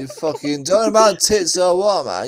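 lightly voiced sweary bloke; mock Caps, swearing at a mate; Caps impression. S0 teasing his mate, a light Caps impression. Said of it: "our best impersonation of you".

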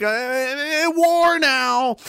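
high, sudden mock alarm; mock panic. Mocking the elites, a high panicky cry. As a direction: play the panicking rulers, voice jumping up.

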